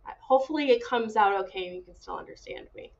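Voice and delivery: hoarse, sick raspy voice; raspy from a cold. Real, not acted. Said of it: "excuse my raspy voice".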